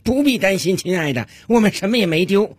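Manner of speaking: lightly acted self-assured husband; confident husband. Husband tells his wife nothing was stolen, lightly played confidence. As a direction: reassure with a touch of comic confidence. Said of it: "在客厅里对着他太太自信地说道".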